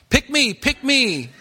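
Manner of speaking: high, strained eager student voice; nasal-free but squeaky keen pupil; Arnold Horshack. Retold or imitated. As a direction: wave your hand and plead to the teacher. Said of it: "Remember Arnold Horshack".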